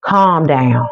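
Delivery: calm reassuring self-talk, slowed; self-soothing. Shown as a demonstration. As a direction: talk yourself down gently.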